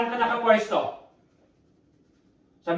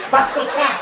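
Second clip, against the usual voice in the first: raised, louder possessed snarl; 4 semitones higher, 4 dB louder than usual. Pretend. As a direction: spit it out as the possessing spirit. Possessed wife answers exorcist.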